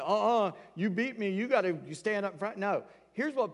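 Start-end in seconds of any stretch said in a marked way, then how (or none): 0.0-0.5 sassy defiance. Shown as a demonstration. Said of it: "may sound like Paul's like". 0.7-1.3 a bit higher, indignant punch on beat; mock indignant Paul demanding an apology; sassy defiance. Shown as a demonstration. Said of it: "may sound like Paul's like". 1.3-2.6 sassy defiance. Shown as a demonstration. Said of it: "may sound like Paul's like".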